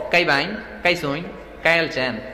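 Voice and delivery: lightly mimicked Kishoreganj speech, k for kh; a hint of rural Kishoreganj talk; Kishoreganj dialect imitation. Preacher imitating how Kishoreganj people greet, in Kishoreganj dialect. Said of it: "এরকম বলে".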